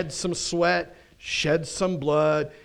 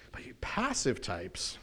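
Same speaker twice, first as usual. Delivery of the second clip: gentle, slow and softer; really kind; 4 semitones lower, 5 dB quieter, slower than usual. Real, not acted. Preacher addressing passive types without aggression, really kind. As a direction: say it kindly, slowed down and lower. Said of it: "in a really kind way".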